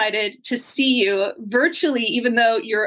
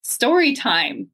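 slow announcement; slower than usual. Shown as a demonstration. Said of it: "hand it off to you and say".

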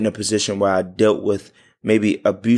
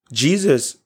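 voice cracking; 6 semitones higher than usual. Real, not acted. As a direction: voice cracks with emotion. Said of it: "My voice just cracked".

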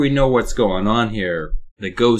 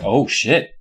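mock excitement; 5 semitones higher, 4 dB louder than usual. Imagined gullible psychiatrist, excited.

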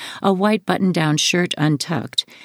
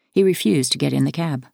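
ordinary delivery, nothing marked

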